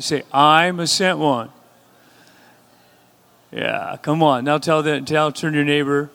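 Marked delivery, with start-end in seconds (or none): 0.3-1.5 slower and louder, with conviction; said like you mean it. Shown as a demonstration. Congregation repeating it back louder and slower, with conviction. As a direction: declare it slowly, meaning every word. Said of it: "say it like you mean it".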